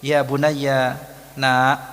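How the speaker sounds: gentle parental address; affectionate, gentle. Shown as a demonstration. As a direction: draw it out lovingly. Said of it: "panggilan penuh kasih sayang".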